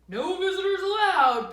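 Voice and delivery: high, loud gruff bear; bear's loud refusal. Acted. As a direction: bark it at the little mouse. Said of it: "Bear said".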